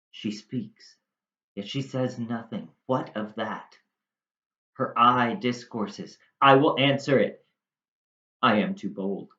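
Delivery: measured dramatic verse recitation; performed classical monologue with deliberate pauses; Shakespeare soliloquy reading. Acted. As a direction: read it aloud as Romeo, phrase by phrase. Reads Romeo's soliloquy aloud.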